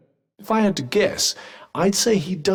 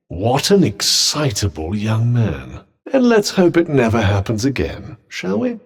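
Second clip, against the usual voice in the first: loud, emphatic reproach; raised-voice admonishment; loud disapproval; 3 semitones lower, 6 dB louder than usual. Acted. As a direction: scold with theatrical emphasis. Rebukes after an outburst.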